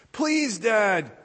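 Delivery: put-on high, loud begging kid voice; pleading teen. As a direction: beg Dad like an eager teenager. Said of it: "pleaded the teen".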